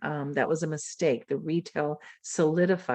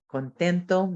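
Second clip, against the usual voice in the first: Spanish word; 3 semitones higher than usual. Shown as a demonstration. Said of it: "And in Spanish".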